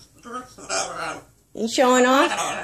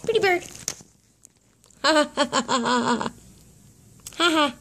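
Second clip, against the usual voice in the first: pitched-up teaching voice; 7 semitones higher, 3 dB quieter than usual. Real, not acted. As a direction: sing it up high. Teaching bird words.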